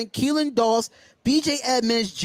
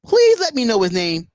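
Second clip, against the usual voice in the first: "Please" pushed louder, the request repeated with more force; 2 semitones lower, 5 dB louder than usual. Real, not acted. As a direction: press harder, louder on "Please".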